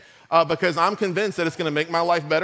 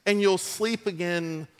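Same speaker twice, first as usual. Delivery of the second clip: mock infomercial. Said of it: "Like, watch this".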